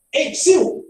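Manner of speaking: high exclaimed hail; attention-getting interjection. Shown as a demonstration. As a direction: call to get someone's attention. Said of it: "você tá chamando a atenção de alguém".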